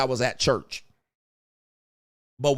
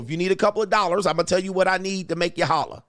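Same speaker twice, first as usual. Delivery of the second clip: ordinary talk, nothing marked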